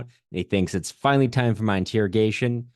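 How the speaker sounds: ordinary talk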